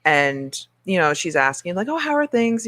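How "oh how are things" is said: mock chirpy customer. Mocking a customer's chirpy question.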